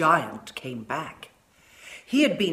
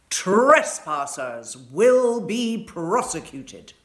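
stern notice; 5 dB louder, slower than usual. A narrator's reading. Notice board read in giant tone.

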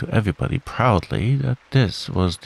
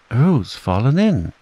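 slow, higher-pitched alarm call; Rabbit's cry; 5 semitones higher, 4 dB louder than usual. A narrator's reading. Rabbit telling everyone Roo has fallen, crying out. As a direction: cry it out, stretching the words. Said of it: "cried Rabbit".

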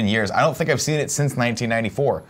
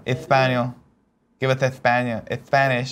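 hammed-up Spanish accent; mock Spanish accent. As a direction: goad someone in a fake Spanish accent. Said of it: "can you do a Spanish accent".

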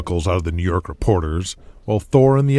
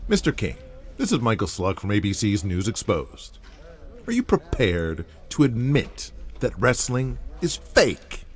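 high, needling newsman climbing ever higher; pushy TV reporter; 6 semitones higher, 6 dB quieter than usual. Acted. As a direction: corner him like a gotcha reporter, pitch rising each accusation. Reporter grills the promoter.

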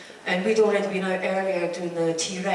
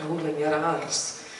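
rolled r in "rolling your arse" in a Scottish accent, slow; 5 semitones lower, 4 dB quieter, slower than usual. Shown as a demonstration. Actress showing her Scottish accent, slow rolled r. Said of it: "keep a little bit of the Scottish in".

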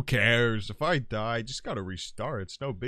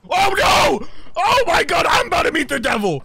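panicked yell; 13 dB louder than usual. Real, not acted. Dying in game.

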